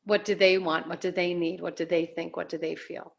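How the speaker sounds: low, softening run of questions; low, even recital of others' questions; dismissive rattled-off list. Shown as a demonstration. Contrasting list, other-referencing questions.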